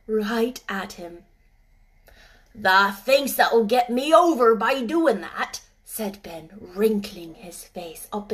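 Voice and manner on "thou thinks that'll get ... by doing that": louder, mocking Yorkshire old man; sarcastic old gardener. Ben mocking the robin's courting, sarcastic old Yorkshireman. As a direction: tease the bird mercilessly.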